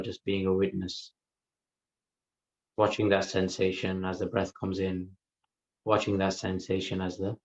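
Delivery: calm, even delivery with long pauses; guided meditation. Real, not acted. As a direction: unhurriedly guide listeners into the breath, leaving silences. Leads a guided breath meditation.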